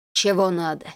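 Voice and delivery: rough, put-on hoarse growl with a cold; deliberately rude, faked hoarse voice; fake hoarse voice. A narrator's reading. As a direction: disguise your voice, rudely. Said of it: "Изобразив хриплый, простуженный голос ... нарочно грубо".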